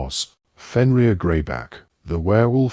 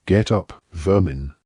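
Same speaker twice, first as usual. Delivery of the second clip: gruff snarled command; rough order. Acted. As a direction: bark it at a prisoner. Captor orders Harry roughly.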